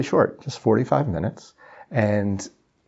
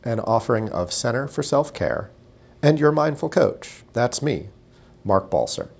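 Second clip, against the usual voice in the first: measured, scripted host welcome; podcast intro read; 3 semitones higher than usual. Acted. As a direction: read a neat show intro with pauses.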